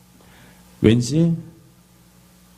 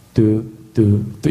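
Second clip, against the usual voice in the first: mock dial tone; 4 semitones lower, much slower than usual. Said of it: "이런 거예요".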